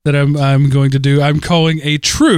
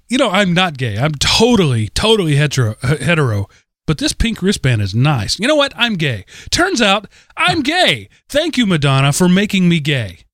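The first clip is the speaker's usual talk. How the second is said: mock gay convert; 3 semitones higher than usual. Mocking guy converted by wristband.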